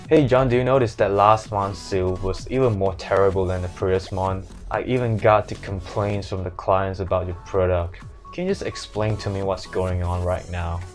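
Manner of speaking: flat, monotone Hong Kong English manager; Hong Kong accent. Acted. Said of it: "all these words in Hong Kong accents".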